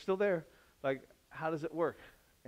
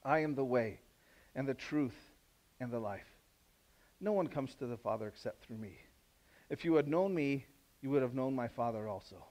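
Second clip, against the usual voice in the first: gentle Jesus. Acted. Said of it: "And Jesus said to him".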